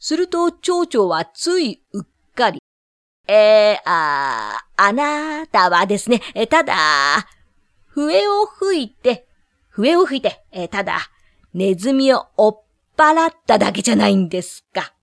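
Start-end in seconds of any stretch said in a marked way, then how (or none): 3.3-14.9 flustered mayor. Acted. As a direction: hem and haw nervously. Mayor stammering excuses.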